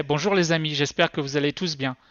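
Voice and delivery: easy, natural France French delivery; France French accent. Shown as a demonstration. Presenter comparing himself with the synthetic French voice, France French accent. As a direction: pronounce it as a native of France would. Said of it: "France French voice".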